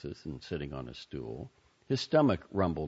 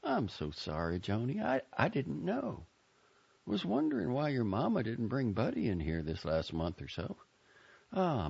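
put-on higher, embarrassed young man, apologizing; flustered counter boy; 5 semitones higher than usual. A narrator's reading. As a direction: stumble over your sorry, eager to make amends.

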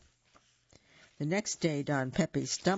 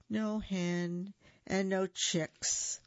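slow, sighing repeat; a slow sad echo of the taunt; sighed; 4 semitones higher, much slower than usual. Acted. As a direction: let the words sink with a sigh. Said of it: "the Gallito sighed".

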